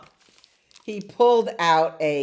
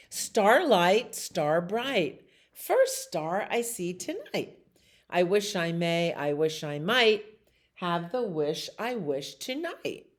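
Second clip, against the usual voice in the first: nursery rhyme recital. A narrator's reading.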